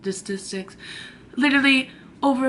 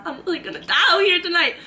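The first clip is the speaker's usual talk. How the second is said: panicked repeat; 6 semitones higher, faster than usual. Retold or imitated. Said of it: "Wow, I'm really gonna die out here tonight".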